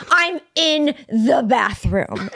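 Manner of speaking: slow, word-by-word imitated protest; mock-stubborn, spaced-out retort; drunken insistence. Retold drunk husband insisting in argument.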